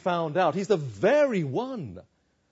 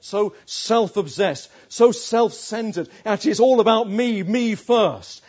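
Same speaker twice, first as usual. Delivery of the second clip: hammed-up self-accusing rant, louder and higher; mounting confession; 4 semitones higher, 6 dB louder than usual. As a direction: build from normal voice to loud, raised insistence. Acted confession of self-centred anger.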